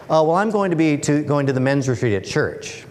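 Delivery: put-on a lightly done Australian accent, a bit sheepish; a mild Aussie bloke, hesitant, in a bad Australian accent. Third worker admits the church men's retreat, sheepish bad Australian accent. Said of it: "I'll try my really bad Australian accent here".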